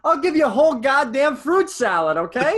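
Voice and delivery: high, loud Malkovich impression; John Malkovich. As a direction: snap it like an irritated Malkovich. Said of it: "great Malkovich impression".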